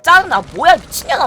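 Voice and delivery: loud furious cursing at a friend; upset classmates swearing out loud at the scheme; angry swearing. Retold or imitated. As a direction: snap out the insult loudly. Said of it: "막 이러고 막, 막 욕하는 사람도 있고".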